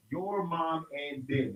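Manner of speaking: slow, each word of the phrase separated; careful, drawn-out enunciation of every word; slowly spelled out. Shown as a demonstration. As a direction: pull the slang apart word by word.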